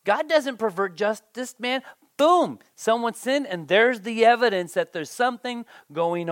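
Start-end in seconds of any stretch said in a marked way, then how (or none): 0.1-1.8 blunt accuser. Retold or imitated. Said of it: "He says". 2.2-3.5 mock booming verdict.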